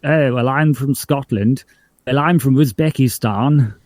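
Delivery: mock period-film English accent, each line matching; same accent for all. Retelling a joke on old Merchant Ivory films, identical mock English accent. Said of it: "everyone having the same accent".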